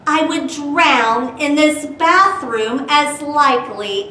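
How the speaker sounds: put-on lively read-aloud for kids; storybook reading. Teacher reading Dr. Seuss rhyme to children, lively.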